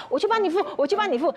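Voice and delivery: fast, high eager mom; lightly voiced eager mother; imitating mom. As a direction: chirp it like a keen mother.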